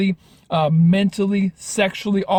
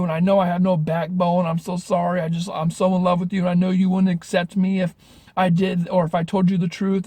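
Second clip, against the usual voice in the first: higher, pleading, rushed voice; pleading apology; 4 semitones higher than usual. Retold or imitated. Caught boyfriend begging his girlfriend not to leave, higher pleading voice. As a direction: play the caught liar begging forgiveness, mildly whiny.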